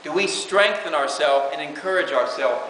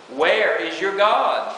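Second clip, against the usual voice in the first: taunting; much slower than usual. Retold or imitated. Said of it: "That's what the enemy says".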